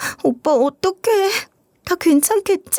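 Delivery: whiny, high-pitched, slow whimpering whine.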